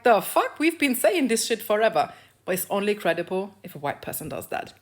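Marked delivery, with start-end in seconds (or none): 0.0-2.1 exasperated retort. Retold or imitated. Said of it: "I'm like".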